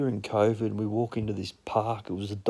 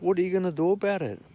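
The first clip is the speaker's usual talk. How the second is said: fast, higher challenge; defiant comeback; 8 semitones higher, faster than usual. Retold or imitated. Confronting the guy claiming his seat, fast and defiant. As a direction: fire it back at him.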